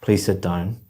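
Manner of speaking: curt, unfriendly request with little lift; rude. Shown as a demonstration. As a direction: say it rudely, without courtesy. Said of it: "sound very rude".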